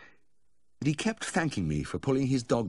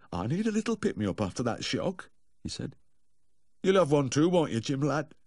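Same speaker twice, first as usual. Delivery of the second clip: tipsy cheer; 8 semitones higher than usual. Acted. Cheerful drunk Humphrey.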